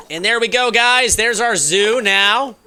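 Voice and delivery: high, loud and thrilled; excited. Real, not acted. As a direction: show off the zoo with delight. Proudly showing off finished zoo.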